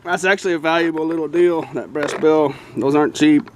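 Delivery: talking around a flashlight; muffled, mouth held open. Real, not acted. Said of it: "It's not gonna be easy talking though".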